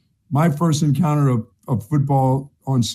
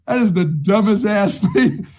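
laughing retort; 5 semitones higher than usual. Retold or imitated. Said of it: "you should have said".

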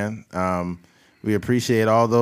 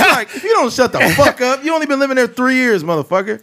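high, loud, fast rant; 12 semitones higher, 5 dB louder than usual. Real, not acted. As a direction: yell it out in disbelief. Ranting at fake Texans.

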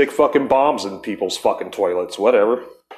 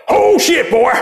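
high, loud startled redneck yelp; startled old redneck; 5 dB louder than usual. Retold or imitated. Old man woken by a break-in, mock startled yelp. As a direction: jolt awake like a gun-crazy little old man. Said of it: "he'd wake up in his tidy whities all".

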